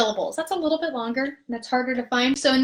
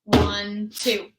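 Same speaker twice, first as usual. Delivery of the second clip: slow held count of one, two; counting out a held half note; 3 semitones lower than usual. Shown as a demonstration. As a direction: stretch the count across two beats. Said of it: "for two beats would go one".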